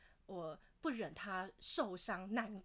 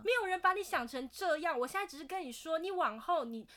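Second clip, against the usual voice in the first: exasperated retort; 6 semitones higher than usual. Retold or imitated. Retold quarrel with dad.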